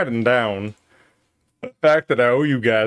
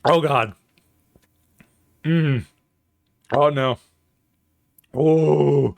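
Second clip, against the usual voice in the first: burning mouth; 3 semitones higher, slower than usual. Real, not acted. Eating very hot sauce.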